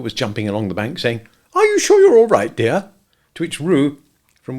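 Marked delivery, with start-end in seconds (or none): 1.5-2.9 high, louder anxious call. A narrator's reading. Kanga calling to Roo in the stream, anxious. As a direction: call out worried for your child.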